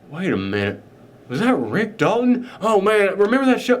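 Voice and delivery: lightly put-on southern accent, rising in recognition. Cult member recognizes a TV actor, light southern accent. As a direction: give it a touch of southern accent. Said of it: "I don't know why I'm doing a southern accent for the cult members".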